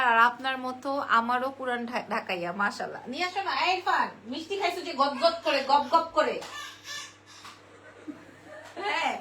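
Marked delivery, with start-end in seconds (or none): 4.9-6.4 playful shout. Real, not acted. Teasing the child about gobbling sweets.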